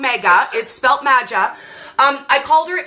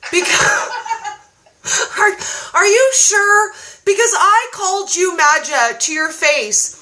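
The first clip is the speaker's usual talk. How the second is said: mock disbelief; 4 semitones higher than usual. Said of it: "guess what Dory said".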